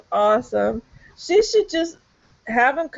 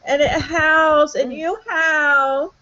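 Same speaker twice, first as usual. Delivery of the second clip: sexy voice; 4 semitones higher than usual. Pretend. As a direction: overdo a romance novel read. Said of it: "sexy voice".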